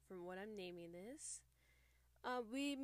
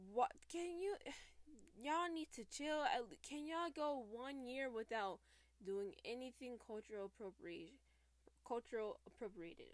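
exasperated call-out; 3 semitones higher, 3 dB louder than usual. Acted. Public service announcement to groups.

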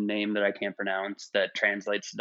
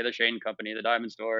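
flat, even radio ad read; monotone voice. Retold or imitated. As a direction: drone it like an old jingle ad. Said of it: "in a monotone tone".

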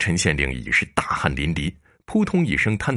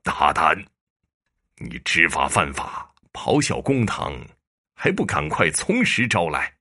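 stern shout. Acted. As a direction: thunder down at the accused, word by word. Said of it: "耿知府厉声喝道".

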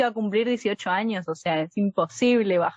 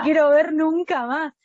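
higher, louder, slow goodbye; mock angry farewell; 6 semitones higher, 4 dB louder than usual. She tells her ex to get lost, loud and slow. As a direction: spit the last words at him slowly.

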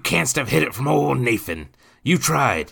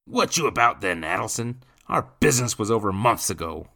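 put-on loud, raised surly drunkard; rough-mannered, irritated and louder; growled challenge; 6 semitones higher, 7 dB louder than usual. A narrator's reading. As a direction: growl at an unwelcome visitor. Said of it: "Nathan growled".

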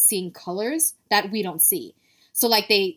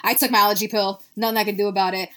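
tipsy, slightly slurred words. Real, not acted. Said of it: "slurring of my words 'cause I've been drinking beer".

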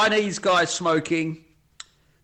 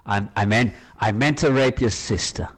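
lightly voiced American politician; halting folksy American correction, in short pieces; deadpan American statesman stumbling through remarks; George Bush impression; 3 semitones lower than usual. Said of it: "That was a really good George Bush".

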